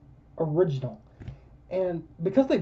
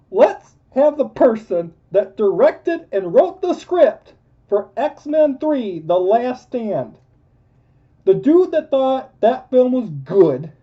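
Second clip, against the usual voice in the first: sarcastic; 6 semitones higher, 5 dB louder, slower than usual. Real, not acted. Sarcastic rant about director.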